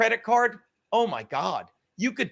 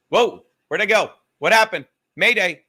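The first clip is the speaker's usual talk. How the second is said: startled; 7 dB louder than usual. Real, not acted. Stream suddenly freezing.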